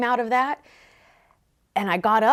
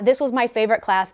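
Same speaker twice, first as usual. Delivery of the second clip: excited. Retold or imitated. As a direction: gush it out like a thrilled kid. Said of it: "get so excited because she's like".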